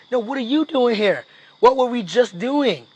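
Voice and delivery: indignant confrontation. Acted. Trainer confronting his client in the donut shop, indignant. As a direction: confront him, throwing the question right back.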